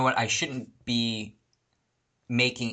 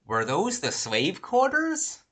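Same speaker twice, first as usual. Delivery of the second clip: higher, drawn-out casual tourist question; detached curiosity; 8 semitones higher, slower than usual. Retold or imitated. Old lady on the golf cart passing stone shacks, detached curiosity. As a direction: ask it slowly, like an idle sightseer. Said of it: "like, completely detached".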